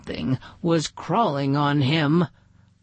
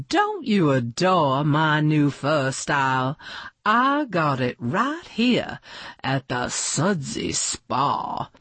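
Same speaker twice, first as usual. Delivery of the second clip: a hint of a grand movie diva, pitching her show; lightly voiced glamorous star; 2 semitones higher than usual. Miss Garbark announces the spa special to guests, lightly grand. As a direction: sell it like a gracious film star.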